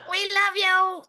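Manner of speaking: high, loud cheer; high cheering call; excited shout. Real, not acted. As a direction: shout love from the crowd. Crowd cheering the poet.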